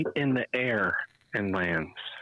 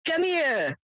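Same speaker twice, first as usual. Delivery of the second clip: imitating pizza man calling. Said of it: "it's like".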